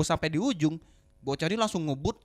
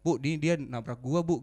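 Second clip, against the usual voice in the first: lower, softly slowed appeal; polite explaining; 5 semitones lower, 3 dB quieter than usual. Retold or imitated. Rider explaining to the child's mother, gently and politely. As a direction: retell it as a patient, polite explanation. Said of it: "Gue bilang baik-baik".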